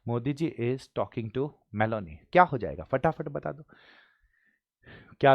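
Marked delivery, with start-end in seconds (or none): 0.1-2.2 slow, steady, whole sentence together; all in one go. Shown as a demonstration. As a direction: read the full line without breaking. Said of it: "हिम्मत करके पूरा साथ में बोल जाओ sir".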